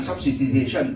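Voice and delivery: substitution misread as sub-si-ti-tay-tion; mispronunciation to avoid. Shown as a demonstration. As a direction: run through "substitution" the wrong way, with si-ti-tay. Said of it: "อย่าอ่าน substitution ก็แบบไซงามอะ". (อ่าน substitution ผิดเป็น ซับซิติเทชัน)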